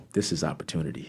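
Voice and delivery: murmuring a private plan; quiet realization. Retold or imitated. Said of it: "I said".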